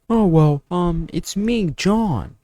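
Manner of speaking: high, halting, unsure answer; clueless guy. Retold or imitated. Mocking a viewer who doesn't know himself, high and unsure. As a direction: play a dim guy fumbling his own name.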